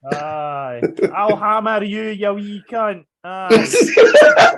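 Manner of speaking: Scottish tough guy threatening a fight; Glasgow street accent. Pretend. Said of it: "more Scottish people being legends".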